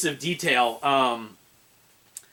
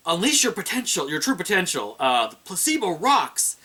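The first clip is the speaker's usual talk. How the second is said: slow ad-voice quote; 4 semitones higher than usual. Retold or imitated. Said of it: "says the engineer".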